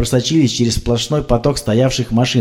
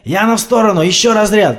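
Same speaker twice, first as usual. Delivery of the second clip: high loud command; shouted order; 9 semitones higher, 4 dB louder than usual. A narrator's reading. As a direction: order her aside and shock. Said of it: "продолжал Слава".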